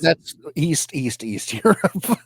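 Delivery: put-on slow, heavy joke Russian accent, dragging the words; mock Russian accent. Podcaster jokes to cohost in a slow mock Russian accent. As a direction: ham up a stereotypical Eastern European accent, slowly. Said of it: "I'm going to do a Russian accent".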